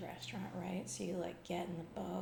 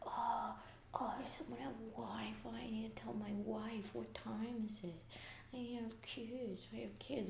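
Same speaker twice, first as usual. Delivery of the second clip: lightly voiced panicky excuses; imitating freaked-out Jeffrey; 3 semitones higher than usual. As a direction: mimic a fretting colleague pleading to leave. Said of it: "he was, like, freaking out".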